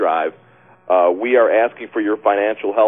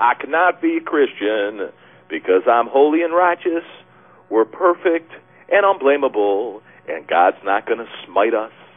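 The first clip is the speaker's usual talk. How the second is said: put-on rural country-style twang. Host reads out a listener's entry on air: country twang. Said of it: "in a country twang".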